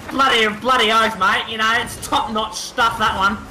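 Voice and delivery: hammed-up Australian banter; Aussie accent. Player praising play to mates, broad Australian accent. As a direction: boast in broad Aussie slang. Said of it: "will stick to Aussies".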